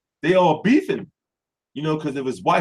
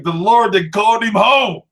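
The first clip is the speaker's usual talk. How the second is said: mock church mourning; 4 dB louder than usual.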